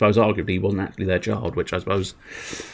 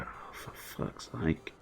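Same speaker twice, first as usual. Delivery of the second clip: slow, whispered mock despair; weary exasperation; 5 semitones lower, 18 dB quieter, slower than usual. Imagined listener to Loki's explanation, wearily whispering. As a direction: sigh it out almost without voice.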